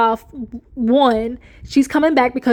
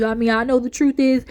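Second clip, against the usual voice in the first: mocking Kirk. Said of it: "now when you sit there talking about".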